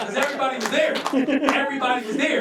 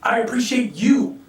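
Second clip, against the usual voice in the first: sincere thanks; slower than usual. Retold or imitated. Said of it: "and said".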